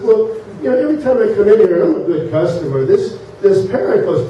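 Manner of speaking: lightly acted indignant grievance; exasperated complaint. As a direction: raise the pitch in mild exasperation. Offended customer complains to manager.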